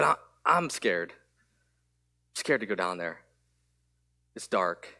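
soft, slow, small scared voice of a daughter; lightly voiced frightened child, drawn out; scared little girl.

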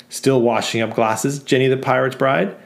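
mocking customer. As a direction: drag out the sneer at Jenny. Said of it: "And another says".

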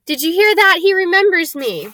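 high, thrilled announcement; excited cry. A narrator's reading. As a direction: proclaim it to the whole room, elated. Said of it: "cried Daedalus Diggle, looking around at everyone".

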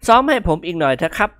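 chuckling request; laughing. A narrator's reading. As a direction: tease through a laugh. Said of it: "กิมหงวนหัวเราะหึ่ๆ".

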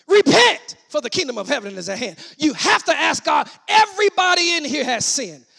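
loud cry of repentance, then urgent; emphatic pulpit delivery; forceful preaching. Acted. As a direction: preach it hard to the congregation.

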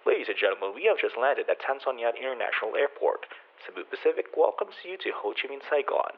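lightly voiced soft cabin announcement; a hint of a flight attendant on the intercom. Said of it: "the cabin crew announcement went like this".

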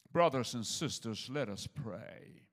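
slow, solemn funeral preacher; pulpit voice. Retold or imitated. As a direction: lightly put on a graveside minister's tone. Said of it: "he's standing there, he's got his Bible open".

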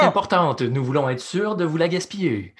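mock hold message announcer; deadpan automated phone message; customer service voice. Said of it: "au téléphone quand le gouvernement vous met en attente". (voix de service à la clientèle)

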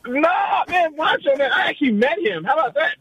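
lightly voiced Macho Man; a hint of wrestler promo.

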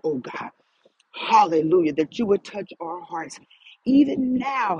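earnest praying with hallelujahs; fervent prayer. Acted. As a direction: pray it aloud with rising fervor. Leads a spoken prayer.

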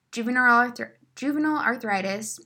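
holding back hiccups; words broken by a hiccup; suppressing hiccups. Real, not acted. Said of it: "I have the hiccups right now".

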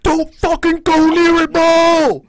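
high, loud bro yelling a warning; frat guy voice. Retold or imitated. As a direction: bark it like a hyped frat bro. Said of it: "my frat guy character came back".

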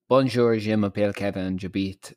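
basic learner's French accent; ordinary French accent. Shown as a demonstration. Host demonstrates the French they know, in an ordinary French accent. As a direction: recite schoolbook phrases in a simple French accent. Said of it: "the French I know would be".

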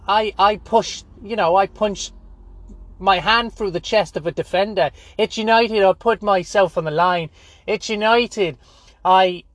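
high-pitched, stammering Scouse caricature; hammed-up ex-footballer, high and halting; Roy Keane. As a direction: moan and boast in a high mock-Scouse voice. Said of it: "I don't know why he's Scouse".

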